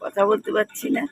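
a cold-ruined whisper; hoarse whisper. Real, not acted. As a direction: voice almost gone, whispered. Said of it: "আমার গলা গেছে বসে".

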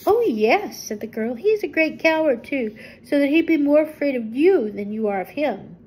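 put-on a young girl vouching for her friend; lightly voiced little girl, eager; Dorothy's voice.

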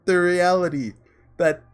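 choked up, own voice; tearing up. Real, not acted. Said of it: "I'm actually tearing up a little".

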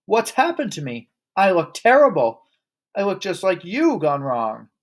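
high, horrified outburst; yelling. A narrator's reading. Father seeing himself in the mirror, yelling. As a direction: wail it in rising horror. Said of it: "yelled the father".

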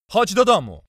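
high, loud command; shouted order. A narrator's reading. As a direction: shout him down and order him home. Companion orders him home.

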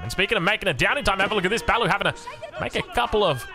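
lively running match commentary; live play-by-play. Real, not acted. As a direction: call the action as it unfolds.

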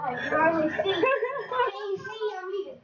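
a hint of a creaky old man, very slow. Kid hams up an old man impression for mom, slow and creaky. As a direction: squint and mumble like a frail old man. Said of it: "You sound like an old man".

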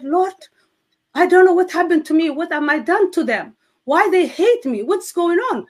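crying out to God, fast and high. Retold or imitated. Wife pleading with the Lord after family threats, high and rushed. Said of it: "and I said".

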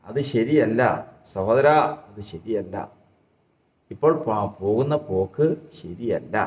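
low, slow, measured reproof; acted earnest warning to a straying brother; admonishing a brother. Preacher telling sinners their path is wrong, admonishing. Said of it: "എന്നങ്ങ് പറയണമെങ്കിലേ".

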